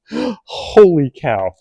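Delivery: slow, drawn-out holy cow; amazed. Real, not acted. Showing the giant wrenches to viewers, slow amazed exclamation. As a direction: let the awe stretch the words out.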